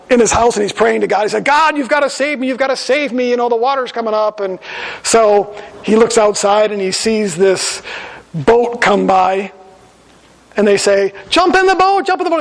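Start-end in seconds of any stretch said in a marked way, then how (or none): 1.4-4.4 high, pleading cry to God; a man pleading as the water rises; desperate praying. Acted. 11.3-12.4 high, urgent call from a boat. Acted.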